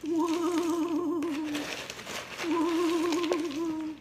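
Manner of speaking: high wavering ghost hoot; spooky woo-hoo. Pretend. Spooky woos.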